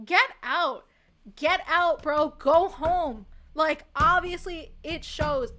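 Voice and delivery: loud, indignant get out; a real fed-up outburst; angry rant. Real, not acted. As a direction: tell them to leave, fed up. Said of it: "I'm, like, screaming about Emilia Perez".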